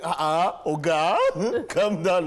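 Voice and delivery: laughing mock remonstration; mock protest. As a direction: playfully tell the big man to ease off. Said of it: "I was like".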